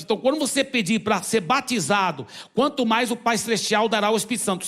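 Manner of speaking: ordinary talk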